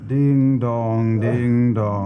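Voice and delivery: playful sung-out ding dong of a clock; chime noise. Pretend. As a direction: ring out like a bell tower. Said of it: "make the bing bong noise".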